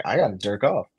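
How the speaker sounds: hushed, breathy aside to himself; low whispered inner voice; whispered thought. Retold or imitated. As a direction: murmur it like a secret urge.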